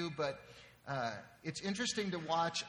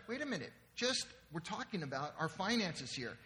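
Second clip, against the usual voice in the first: suddenly logical wife; 2 semitones higher than usual. Acted. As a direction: cut in as the reasonable one. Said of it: "she becomes logical".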